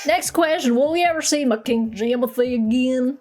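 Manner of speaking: put-on Southern-tinged character voice; Jimothy. Reading a fan question, put-on Southern-like voice. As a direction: read the question in a silly character voice. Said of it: "pull out the Jimothy voice".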